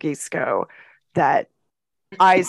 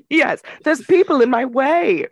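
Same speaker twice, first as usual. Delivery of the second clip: villain voice; 8 semitones higher, 3 dB louder than usual. Retold or imitated. Continuing the villain voice.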